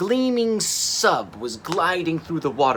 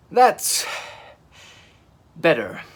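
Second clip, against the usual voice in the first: whooping; 2 semitones higher, 4 dB louder, slower than usual. A narrator's reading. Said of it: "he whooped".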